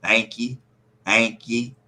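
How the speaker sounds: "thank ye" drawled, rising on thank; Appalachian thank ye. Shown as a demonstration. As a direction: say "thank ye" like an old hill dweller. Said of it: "thank ye instead of thank you".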